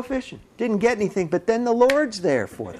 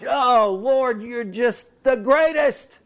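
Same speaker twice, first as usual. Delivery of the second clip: awed praise; 3 semitones higher, much slower than usual. Pretend. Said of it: "listening to him, going".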